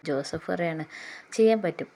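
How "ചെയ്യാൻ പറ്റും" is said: emphatic retort. Retold or imitated.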